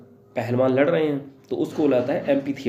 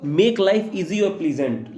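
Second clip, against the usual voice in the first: 1 slow dictation; 3 semitones higher, much slower than usual. Shown as a demonstration. Teacher dictating English definition.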